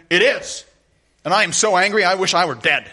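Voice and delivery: mock-pout it like a stubborn kid; stubborn child's sulk. Jonah answering God like a stubborn child, sulky and petulant. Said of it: "Jonah is like a stubborn child".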